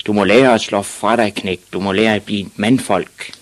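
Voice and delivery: gruff-dad telling-off; shouting father. Acted. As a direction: lecture the boy forcefully. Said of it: "råbte hans far".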